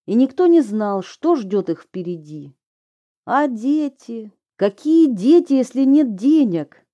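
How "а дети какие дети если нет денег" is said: rising, louder indignant questions. A narrator's reading. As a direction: ask it with mounting indignation.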